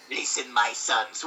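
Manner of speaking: slow, lightly gruff smoker rat; a hint of an old smoker; smoker voice Splinter. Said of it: "He sounds like a smoker".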